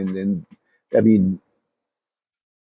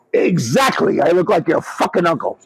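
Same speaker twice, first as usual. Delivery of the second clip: quoting Artie's punchline with a mild mock shout; retold shouted punchline; 6 semitones higher than usual. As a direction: shout it back at him like a comeback. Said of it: "He goes".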